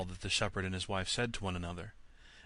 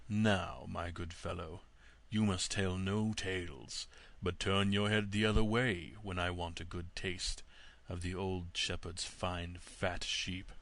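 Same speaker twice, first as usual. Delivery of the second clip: sly wolf; 2 semitones lower, slower than usual. Acted. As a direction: coax like a crafty wolf. Wolf voiced again.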